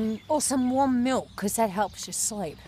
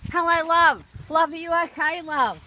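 higher, sing-song pet names to a pretend stranger; higher pretend carer voice, coaxing a pretend homeless girl; mock sweet coaxing; 4 semitones higher than usual. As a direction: coo at her like a kindly carer, playing along. Kid coos to pretend homeless girl.

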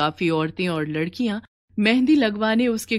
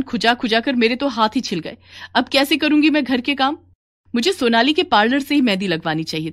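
angry complaint; 4 semitones higher than usual. Acted. Customer angry about allergy.

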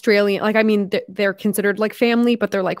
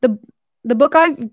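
Australian accent; 2 semitones higher than usual. Shown as a demonstration. Vlogger trying to get back into her Australian voice, attempted Australian accent. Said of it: "get back in the Australian voice".

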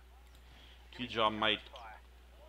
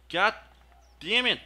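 loud, higher frustrated yell; frustrated outburst; 10 semitones higher, 7 dB louder than usual. Real, not acted. Gamer shouting at a failed grenade throw, frustrated outburst.

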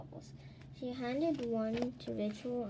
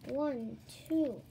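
countdown building to a loud shout; rising, louder call to leap; 4 semitones higher, 8 dB louder, much slower than usual. A narrator's reading. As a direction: count up, then shout the cue. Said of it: "Joy called".

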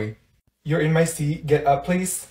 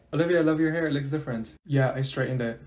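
normal talking voice

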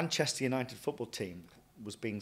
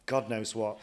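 disgusted; 2 semitones higher, 10 dB louder, slower than usual. Real, not acted. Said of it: "and now I'm serving deep-fried".

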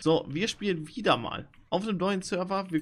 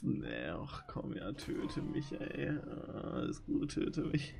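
resigned whisper; 3 semitones lower, 8 dB quieter, much slower than usual. Real, not acted. Gibt beim Sterben auf.

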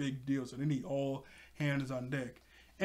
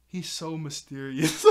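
swooning laugh; slower than usual. Retold or imitated. Blake swooning over Bergie.

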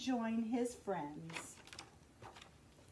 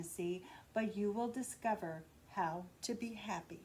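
lightly voiced wise octopus, lower; a touch lower and calm, giving advice; a hint of deep octopus voice; 3 semitones lower, 4 dB quieter than usual. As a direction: wise octopus advising the fish, slightly lower. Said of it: "said the octopus with a deep voice".

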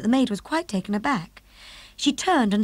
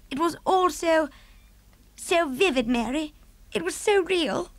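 higher, troubled regal voice; the Queen; 5 semitones higher than usual. Acted. Queen describing her dream to Mary, higher and troubled. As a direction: recall the horror, still shaken.

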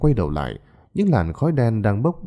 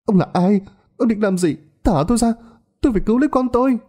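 high, louder frantic screaming; screaming mother; 14 semitones higher, 3 dB louder, faster than usual. A narrator's reading. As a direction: fight them off, screaming for her child. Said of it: "lại gào lên". (người mẹ gào lên điên cuồng, giọng cao và to)

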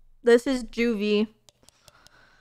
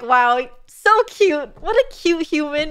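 teary gushing; 3 semitones higher, 5 dB louder than usual. Retold or imitated. Streamer recalling reading wholesome chat profiles, teary gushing. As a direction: gush as if tearing up over something adorable. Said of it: "then I get teary-eyed".

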